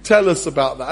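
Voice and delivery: mildly voiced eager guest; lightly acted coaxing request; eager partygoer. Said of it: "somebody would have asked".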